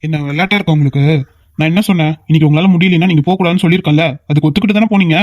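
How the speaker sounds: mildly cross, quickening telling-off; scolding. Acted. Elder brother reminding sisters of their agreement, scolding. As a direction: scold them with restrained annoyance. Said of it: "கத்தாதடா அண்ணா".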